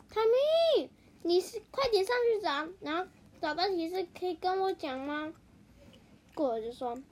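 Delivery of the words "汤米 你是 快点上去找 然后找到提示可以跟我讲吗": calling up the tree, high and loud. Acted. Hippo calls up to Tommy in the tree, loud call. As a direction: shout up to Tommy to hurry.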